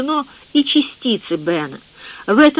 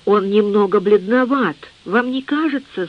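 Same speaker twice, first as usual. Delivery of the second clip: usual speaking voice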